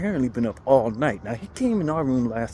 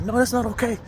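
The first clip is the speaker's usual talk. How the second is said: lady voice; 9 semitones higher than usual. Retold or imitated. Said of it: "she was like".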